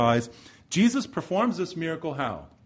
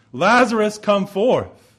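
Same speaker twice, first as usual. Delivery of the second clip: higher, louder commanding call of Lazarus; 6 semitones higher, 7 dB louder, slower than usual. Retold or imitated. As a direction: summon the dead man by name, ringing out. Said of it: "says with a loud voice".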